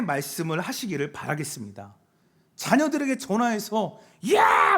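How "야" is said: put-on sudden high, loud yell at the kids; scolding yell. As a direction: yell it like an angry parent. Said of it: "막 소리 지르지 마시고". (자식에게 버럭 지르는 소리)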